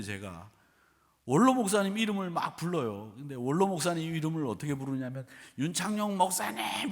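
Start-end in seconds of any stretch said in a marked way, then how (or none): 5.6-6.9 mock-polite call, raised pitch. Congregant addressing the pastor by title, polite calling. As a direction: call the pastor's name courteously. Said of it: "이렇게 부르겠어요?".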